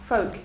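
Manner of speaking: "Folk" with no L heard; silent L. Shown as a demonstration. Teacher repeats the word for students, "Folk" with silent L. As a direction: leave the L out of "Folk". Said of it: "The L is silent".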